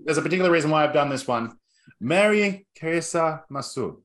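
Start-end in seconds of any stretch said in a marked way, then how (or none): 2.0-4.0 mock Japanese greeting, said in one go; campy fake Japanese accent; bad Japanese accent. Host giving the greeting once more in a bad Japanese accent. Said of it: "worst Japanese accent you have ever attempted".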